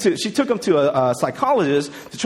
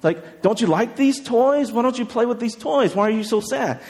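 lightly voiced concern, higher pitched; concerned psychologist; 4 semitones higher than usual. Psychologist asks a crying boy about toys, mildly concerned. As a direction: gently imitate a psychologist questioning a child. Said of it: "the psychologist goes and is like".

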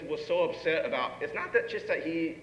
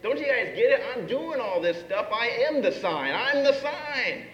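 higher, louder insistence, slowing at the end; exasperated Jesus; 7 semitones higher, 4 dB louder than usual. Retold or imitated. Jesus pressing the crowd, higher and louder, exasperated. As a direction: drive it home in frustration. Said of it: "why Jesus is so upset".

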